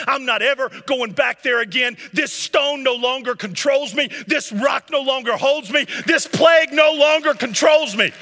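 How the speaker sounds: building to a full, high shout; defiant declaration. Acted. Believer declaring victory over sin, rising to a shout. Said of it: "and you gotta say".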